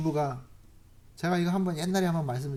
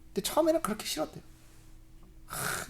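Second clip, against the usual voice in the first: ordinary talk, nothing marked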